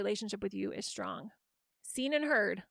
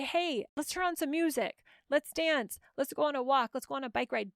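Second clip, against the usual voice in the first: put-on higher, bright-eyed invite to a teen; playful suggestion; 3 semitones higher than usual. Shown as a demonstration. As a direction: pitch it up playfully, like suggesting a fun outing. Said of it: "you can still be playful with them".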